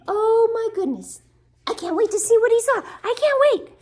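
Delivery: high, loud, bubbling excitement; eager anticipation. Acted. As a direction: build excitement for young listeners. Reader voices eager anticipation for children.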